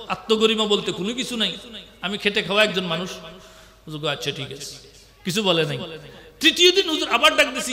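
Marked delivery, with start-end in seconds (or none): 4.1-4.7 much lower, hushed reply; quiet acceptance. Retold or imitated. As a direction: drop right down into a soft, resigned-sounding okay. Prophet's low-key reply, retold. (নিচু গলায় মৃদু সম্মতি)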